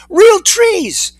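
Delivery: very high, amazed exclamation; excited yell. A narrator's reading. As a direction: cry out in amazement.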